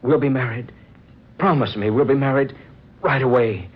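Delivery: eager, rising insistence; urgent plea. Acted. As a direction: beg her to promise now. Urgent proposal to her.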